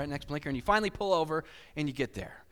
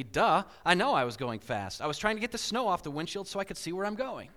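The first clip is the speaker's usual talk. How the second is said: matter-of-fact; 3 semitones higher than usual. Retold or imitated. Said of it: "she very matter-of-factly told me".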